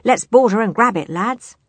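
high, loud captain's command; rally the crew with a cry. A narrator's reading. Captain sends his pirates to board, crying out. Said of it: "cried Cutlass".

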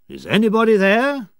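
loud, high call into the cave; echoing shout into the dark cave. A narrator's reading. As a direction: shout out to whoever is there. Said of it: "he shouted".

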